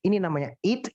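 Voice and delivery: "eat" said as the English word with a long clear i; teacher's model reading. Shown as a demonstration. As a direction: correct pronunciation of "eat". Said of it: "Beda loh".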